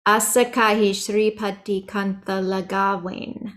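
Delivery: recited line, Lagawain with a V-W blend; V softened toward W. Shown as a demonstration. Teacher reciting a second example, Lagawain between V and W. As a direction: say Lagawain's W halfway to a V. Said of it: "cross between a V and a W".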